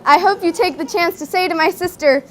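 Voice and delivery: measured spoken-word delivery with deliberate pauses; slam poem recital. Acted. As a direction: perform a wedding poem to the room. Performs own wedding slam poem.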